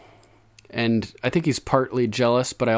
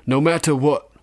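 higher, louder firm finish; ringing; 5 semitones higher, 5 dB louder than usual. A narrator's reading. Jon insisting on his father's honor, ringing. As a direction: declare it ringingly, covering any doubt. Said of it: "ringingly, to make up for his hesitation".

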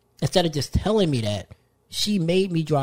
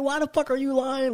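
mock exasperated; 11 semitones higher than usual. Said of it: "I was like".

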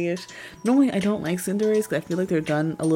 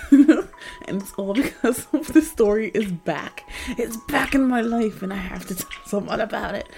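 demon voice; 4 semitones higher, 3 dB louder than usual. Real, not acted. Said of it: "excuse me for my demon voice".

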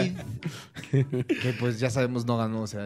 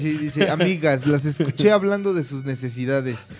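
hammed-up politician voice; 3 semitones higher, 5 dB louder than usual. Comic Meade voiced reading comic.

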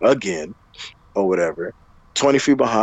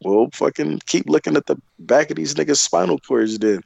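sarcastic comeback; 5 semitones higher than usual. Retold or imitated. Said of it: "I'm like".

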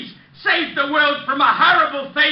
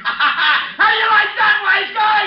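laughing taunt; 4 semitones higher, slower than usual. Acted. Neighbor mocks after bad singing.

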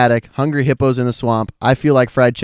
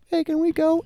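put-on high pleading kid voice; whiny kid; 3 dB quieter than usual. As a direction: beg like a bored kid. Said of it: "I would be, like, sitting there".

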